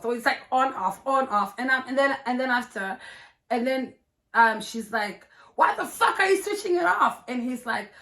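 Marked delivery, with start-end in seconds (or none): 5.6-7.2 high-pitched mock outrage; imitating an indignant girlfriend; retold angry demand. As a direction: act out her irate challenge in a raised pitch. Retold quarrel over the light.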